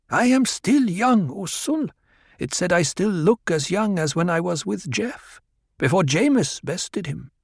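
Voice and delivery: put-on high, pleading young woman; Harah's voice. A narrator's reading. Harah insisting to Paul she is still young, high voice.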